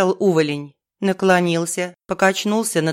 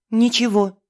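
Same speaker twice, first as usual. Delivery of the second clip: usual speaking voice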